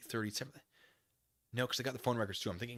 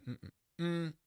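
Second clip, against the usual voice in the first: normal talking voice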